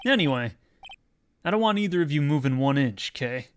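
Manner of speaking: loud, gravelly tough-guy cop; gravelly detective voice. Acted. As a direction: growl it like a gruff old detective. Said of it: "Doing those gravelly voices is killing me".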